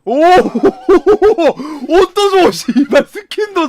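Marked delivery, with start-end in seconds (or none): 1.9-3.7 greedy and delighted; excited shout. Real, not acted. (신나서 웃으며 외침)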